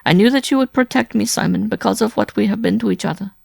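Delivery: high, loud pleading woman; desperate, near sobbing. A narrator's reading. Wife begging Simon to protect her, tearfully desperate. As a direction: beg for rescue, building toward sobs. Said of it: "could no longer suppress her sobs".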